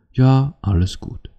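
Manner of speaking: unconvincing, lilting reassurance; feigned all-is-fine. Acted. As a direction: insist nothing's wrong, slow and high. Acted partner insisting all is fine.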